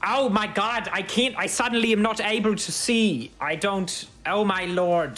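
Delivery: high, panicked voice, suddenly blind; a guard flailing in sudden darkness; startled blinded guard. Acted. Guard engulfed in magic darkness cries out in alarm.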